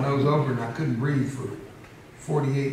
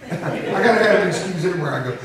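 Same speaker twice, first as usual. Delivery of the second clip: laughing; 3 semitones higher, 5 dB louder than usual. Real, not acted. Joking about being emotional.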